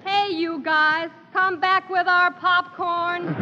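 drawn-out slow calling after them; calling out slowly. Acted. Girl calls after thieves.

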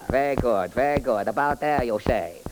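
sing-song comic detective character. Acted. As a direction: play the bumbling detective, chirpy. Detective reconstructs crime.

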